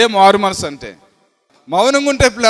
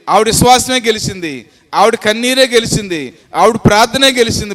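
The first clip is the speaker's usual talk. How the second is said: building preacher's chant of victory; preaching refrain; 3 dB louder than usual. Acted. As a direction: proclaim each line like a refrain. Preaching refrain, rising level. (ఉత్సాహంగా ప్రసంగం)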